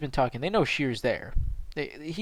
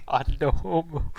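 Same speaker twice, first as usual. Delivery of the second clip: ordinary talk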